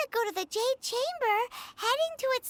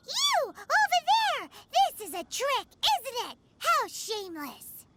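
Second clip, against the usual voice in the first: indignant accusation. Acted. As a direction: call them out, pretend outrage. Accusing the guards of ambush.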